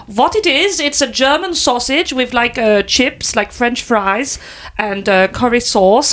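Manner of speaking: explaining in a mock German accent. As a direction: imitate a helpful German woman. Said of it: "I'm gonna do the accent".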